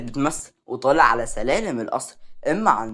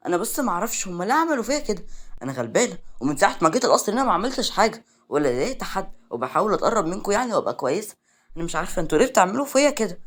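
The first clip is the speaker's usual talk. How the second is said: higher, put-on pitiful whine; overacted self-pity; 5 semitones higher, faster than usual. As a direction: play the poor victim, laying it on thick. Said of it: "بلاش يعني التمثيل الأوفر ده". (تمثيل مسكنة أوفر بصوت أعلى)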